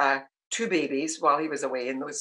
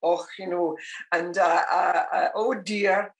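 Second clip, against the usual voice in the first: put-on Glasgow accent; slower than usual. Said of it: "this full Glasgow accent".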